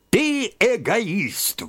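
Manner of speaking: slow, high, booming accusation; thundering. A narrator's reading. Friend thunders an accusation at his old friend, booming. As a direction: thunder it out at him. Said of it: "Вот что гремел он".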